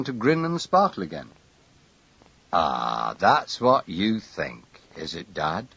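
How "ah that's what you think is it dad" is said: civil. A narrator's reading. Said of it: "he asked civilly enough".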